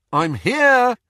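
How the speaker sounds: loud, high answering call. Acted. Harry answers Hermione's call, loud and high. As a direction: shout back so she can hear. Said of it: "he called".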